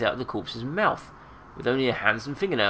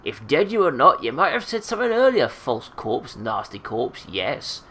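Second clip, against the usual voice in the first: put-on scolding old seamstress, jumping high at first; angry hiss; 5 semitones higher, 4 dB louder than usual. Marta rebuking a talking corpse, angry hiss. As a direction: scold it crossly, then mutter down. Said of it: "hisses angrily at the corpse".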